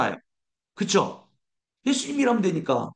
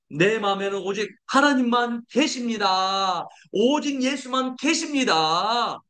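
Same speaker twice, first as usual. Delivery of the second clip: slow, deliberate proclamation building to a shout at the end; solemn slow proclamation swelling into a shout; slow declaration; slower than usual. Shown as a demonstration. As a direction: declare it slowly, then cry out the last line. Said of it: "같이 선포합니다".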